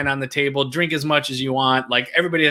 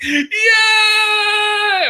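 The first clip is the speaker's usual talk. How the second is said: huge high cheering shout; husband celebrating his long-awaited drink, with a triumphant yell; 5 dB louder than usual. Retold or imitated. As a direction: shout for joy like you won. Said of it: "And I'm like".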